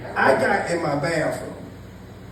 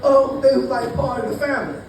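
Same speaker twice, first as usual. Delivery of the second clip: mock crying cop; 8 semitones higher than usual. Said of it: "And he was crying".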